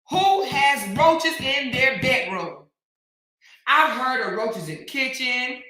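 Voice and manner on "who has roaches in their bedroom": mock disbelief. Real, not acted. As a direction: spell out the disgust. Incredulous mocking question.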